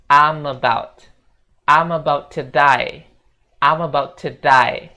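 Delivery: "I'm about to die" run together as "amabautudai"; linked speech. Shown as a demonstration. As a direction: link every word smoothly. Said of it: "disambung-sambung".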